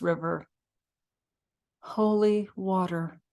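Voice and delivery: measured poetry reading with pauses between phrases; poem reading. Acted. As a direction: read an elegy line by line, leaving space. Reads own poem aloud.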